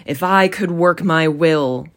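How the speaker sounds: mildly indignant grumble; a touch of outrage, firmly put. Acted. Scrooge rants to his nephew, mildly indignant. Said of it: "said Scrooge indignantly".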